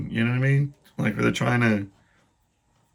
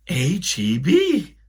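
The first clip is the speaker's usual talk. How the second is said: lightly voiced girl, drawn out slowly; slow spelling-out; 5 semitones higher, 3 dB louder, much slower than usual. Spelling-bee girl slowly sounding out the letters. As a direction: spell it slowly like a careful kid.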